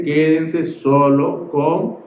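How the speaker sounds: slow, weighty quote dropping low; deliberate low-voiced admonition; solemn instruction. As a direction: space the words out and sink in pitch. Solemnly quoting the preacher's instruction.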